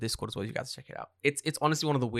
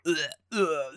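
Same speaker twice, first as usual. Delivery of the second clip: imitated retching groans; acted-out sick, pained "ugh"; queasy groan; 3 semitones higher than usual. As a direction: groan as if about to throw up. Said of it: "I felt like I wanted to throw up".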